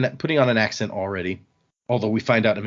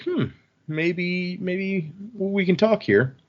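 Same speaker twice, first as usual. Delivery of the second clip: slow, higher, sly voice for a shifty guy; shady dealer; 7 semitones higher, much slower than usual. Retold or imitated. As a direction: drag it out like a crook sniffing a deal. Shady guy warming to a deal.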